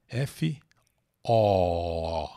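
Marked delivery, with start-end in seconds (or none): 1.2-2.3 O held long and low as "aw"; open O sound. Shown as a demonstration. Teacher isolates the vowel of false, open O. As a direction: draw out a lower, open O. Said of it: "Som de O".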